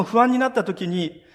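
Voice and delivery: ordinary talk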